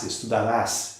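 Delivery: "estudarás" with the weight on final RÁS; stress on RÁS. Shown as a demonstration. Teacher locating the tonic syllable, RÁS stressed in "estudarás". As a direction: land firmly on the last syllable of "estudarás". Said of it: "no ras".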